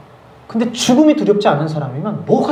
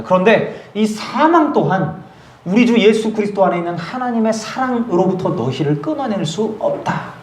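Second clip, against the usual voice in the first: slow, higher, solemn preaching; 5 semitones higher, slower than usual. Real, not acted. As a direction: draw out the promise with weight. Preaching climax. (천천히 힘주어 선포하는 설교)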